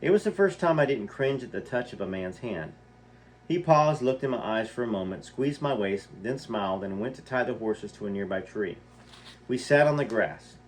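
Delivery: reading a memoir aloud, lightly voiced; story reading. A narrator's reading. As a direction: tell it like a story read to listeners. Reads memoir passage aloud.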